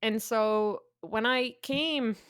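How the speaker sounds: slow put-on Russian accent. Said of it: "why am I doing a Russian accent?".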